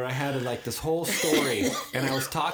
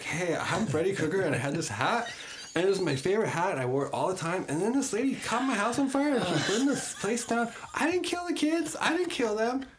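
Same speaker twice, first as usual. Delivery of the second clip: Freddy Krueger voice; 6 semitones higher than usual. Retold or imitated. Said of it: "he's like".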